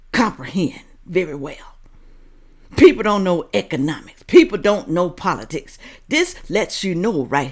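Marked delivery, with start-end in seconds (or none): 0.1-1.8 whispered aside. Real, not acted. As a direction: drop to a scornful whisper. Scornful aside about people.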